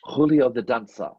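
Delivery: lightly put-on foreign showman voice; a hint of bad fake accent; Julio. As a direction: announce a dancer with a hammy accent. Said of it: "I was going to bring in Julio".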